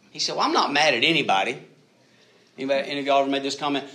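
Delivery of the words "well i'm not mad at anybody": higher and louder, defensive protest; defensive denial. Retold or imitated. Frustrated college student snapping at his pastor, defensively loud. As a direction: push back hard, insisting you're fine. Angry student quoted denying anger.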